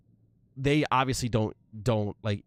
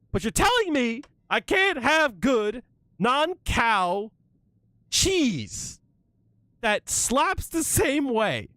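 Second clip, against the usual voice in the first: building indignant rant; 9 semitones higher than usual. Real, not acted. Venting to chat about vegan cheese, rising to outraged yelling. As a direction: let the frustration build line by line until it breaks high. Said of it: "I'm so angry".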